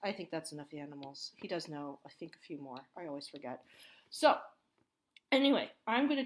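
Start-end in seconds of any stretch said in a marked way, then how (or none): 0.0-2.8 whisper. Real, not acted. Aside whispered while toddler present.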